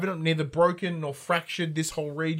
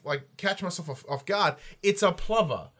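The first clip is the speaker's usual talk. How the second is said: ordinary talk, nothing marked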